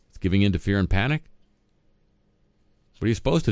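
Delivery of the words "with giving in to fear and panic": sarcastic echo. Pretend. Host sarcastically echoes the quote.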